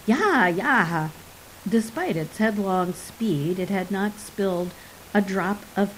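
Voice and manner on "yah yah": excited little troll cry. A narrator's reading. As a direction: yelp it like an eager little troll. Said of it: "with a cry of".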